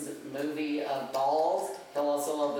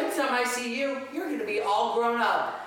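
higher-pitched cartoon mascot imitation; Mickey; 7 semitones higher, 3 dB louder than usual. Parent retelling mascot's line to babies, high cartoon voice. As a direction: mimic the park character, voice lifted high. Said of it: "No, he goes".

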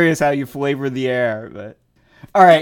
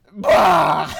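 sputtering cough. Retold or imitated. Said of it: "so I'm like".

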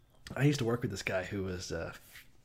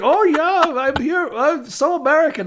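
very high, loud Southern drawl; South Carolinian drawl; 10 dB louder, slower than usual. Retold or imitated. Imitating North Korean spies, loud South Carolinian drawl.

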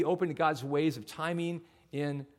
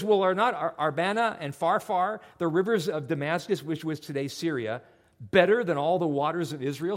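proud general scoffing, louder; haughty scorn; 3 dB louder than usual. Retold or imitated. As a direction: sneer at the rivers of Israel. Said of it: "he's really copping an attitude".

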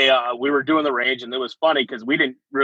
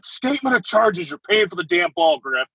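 mock sergeant's yell, raised pitch; retold yelling; 5 semitones higher than usual. First sergeant blaming soldier for the ruined ball, mock yelling. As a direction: imitate a sergeant chewing someone out, without full volume. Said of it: "just started yelling".

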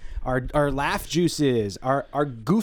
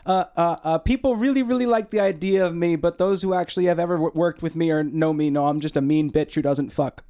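mock stand-up comic; 4 semitones higher than usual. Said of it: "we're gonna start off with some jokes".

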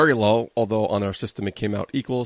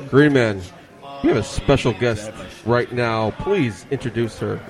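sloppy tipsy host voice, words running together. Real, not acted. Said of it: "talking like a drunk asshole".

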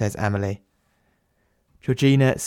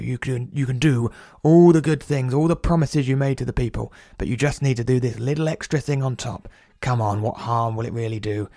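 a slightly raised, wheedling mock persuader; mock tempter voice; 3 semitones higher than usual. The speaker mimicking the men who tempt him, a lightly voiced mock wheedle.

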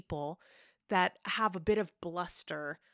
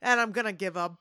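big, booming voice, louder; Patrick Warburton; 5 dB louder than usual. Retold or imitated. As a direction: boast it in a big-guy voice. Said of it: "Patrick Warburton".

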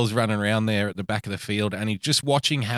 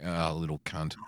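imitating the fans; 8 semitones lower, 10 dB quieter than usual. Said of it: "we're gonna be like".

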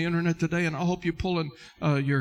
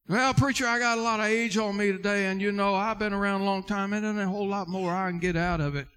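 put-on older member's excuse; 3 semitones higher than usual. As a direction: run on in one breath like a reluctant churchgoer. Voicing an older member's excuse to preacher.

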